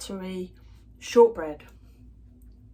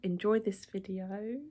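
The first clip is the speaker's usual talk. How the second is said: gentle sign-off; 7 dB quieter, slower than usual. Pretend. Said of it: "I'm going to say".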